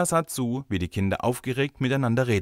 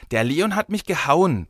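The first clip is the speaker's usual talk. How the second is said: put-on high, loud child telling tales; tearful tattling; 8 semitones higher, 6 dB louder than usual. A narrator's reading. Girl tells the teacher on a boy, tearfully tattling. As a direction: complain to the teacher, a touch tearful. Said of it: "petzte Mareike mit Tränen in den Augen".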